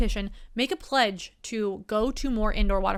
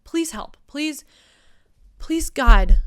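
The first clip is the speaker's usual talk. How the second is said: mock plea; 4 semitones higher, 11 dB louder, much slower than usual. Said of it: "pleading for help".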